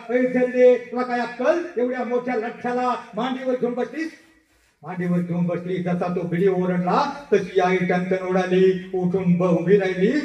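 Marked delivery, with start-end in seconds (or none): 0.1-4.1 an official yelling at a labourer. Retold or imitated. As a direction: scold her harshly from above. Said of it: "BDO त्या आईवर ओरडला".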